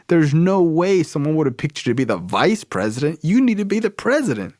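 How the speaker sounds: imitating a friend who can't believe he isn't president; hyped-up friend. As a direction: pump him up like an outraged best friend. Friend hyping him up.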